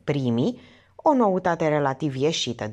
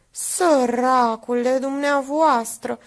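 pitying; 7 semitones higher, 3 dB louder, slower than usual. Acted. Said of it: "îl compătimi Minerva".

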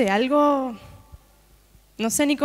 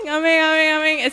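higher and louder, bursting amen after amen; ecstatic amens; 5 semitones higher, 6 dB louder than usual. Retold or imitated. Preacher reliving the prophecy over the phone, ecstatic amens. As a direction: let the joy break out in every amen.

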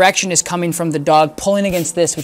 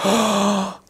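startled gasp; 4 semitones higher, 5 dB quieter than usual. Retold or imitated. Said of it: "looking at you like".

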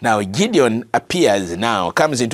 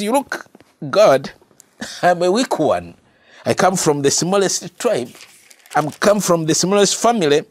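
pleading excuses; 5 semitones higher than usual. Acted. Gideon's excuses voiced high.

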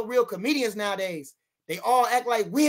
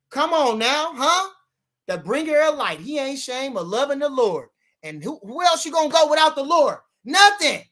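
preachy praise; 4 semitones higher, 4 dB louder than usual. Real, not acted. Praising the Lord.

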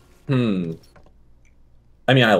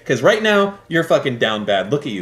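mock hard sell, starting high and dropping to usual pitch; edgy pitch; 4 semitones higher than usual. Streamer pushing a down-bad viewer, edgy mock pep talk. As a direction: badger the viewer, high at first, then settling. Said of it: "a little bit edgy".

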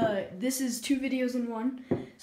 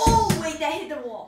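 surprised; 4 semitones higher, 7 dB louder than usual. Real, not acted. Protesting a missed shot.

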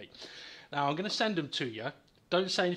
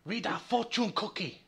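put-on higher-pitched joke Japanese accent; mock Japanese accent; 4 semitones higher than usual.

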